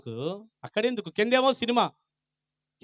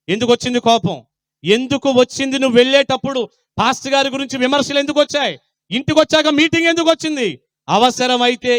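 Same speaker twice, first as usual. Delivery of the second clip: raised voice, pressing rhetorical questions; forceful rebuking sermon; 5 semitones higher, 6 dB louder than usual. Real, not acted. Preacher rebuking those who criticise the pastor, forceful. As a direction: rebuke the congregation with insistent questions.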